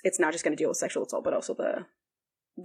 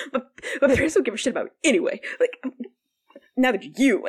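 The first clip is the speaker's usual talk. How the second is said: near tears; 5 semitones higher, 4 dB louder, faster than usual. Retold or imitated. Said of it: "near tears".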